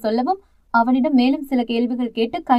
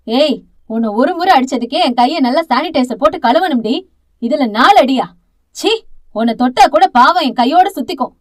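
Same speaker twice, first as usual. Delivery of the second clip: loud, contemptuous sneer; disgusted scorn; 6 dB louder than usual. Acted. Aunt rejecting Thalir's plea, disgusted and loud. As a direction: spit the words out in disgust. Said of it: "அருவருப்பாய் பார்க்க".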